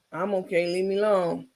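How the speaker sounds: flat, soft, lifeless; zero emotion. Retold or imitated. Rico reciting his line for Carmen, flat. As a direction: drone it with no conviction. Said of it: "said that shit with zero emotion".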